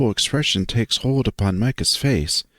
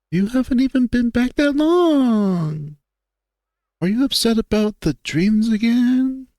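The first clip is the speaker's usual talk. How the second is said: higher, concerned friend's voice; 11 semitones higher than usual. Acted. Friend asks about worsening dreams, concerned higher voice. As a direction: ask gently, in a higher friend's voice. Second voice in scene.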